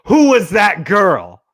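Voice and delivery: loud, slow jealous demand; mock-angry, drawn-out demand; retold accusation. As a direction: imitate a jealous interrogation. Jealous girl accuses him.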